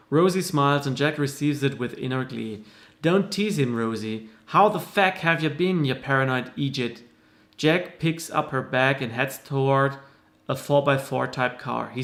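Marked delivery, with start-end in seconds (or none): 3.0-7.0 put-on Irish accent. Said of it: "unique voice for all the different characters".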